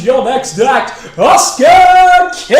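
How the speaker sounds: big hammed-up MC intro, booming and drawn out; announcer voice. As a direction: announce him to the stage like a compere. Mock stage announcement.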